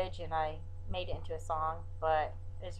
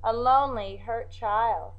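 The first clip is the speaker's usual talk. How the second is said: poem recital; 3 semitones higher than usual. Acted. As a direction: read it like a poem, with pauses.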